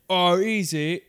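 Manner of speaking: put-on Cockney retort; South End Cockney. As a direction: answer back in mock Cockney. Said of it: "I'm a South End Cockney".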